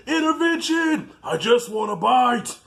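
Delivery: high, drawn-out frenzied cry; Bruce the shark. Retold or imitated. Acts Bruce losing control over blood.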